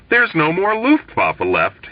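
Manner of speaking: slow, drawn-out wail of grief. A narrator's reading. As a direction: mourn each word slowly, a touch overdone. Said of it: "he wailed".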